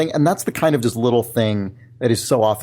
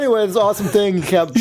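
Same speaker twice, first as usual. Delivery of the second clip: dismissive; 9 semitones higher than usual. Retold or imitated. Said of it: "where you're like".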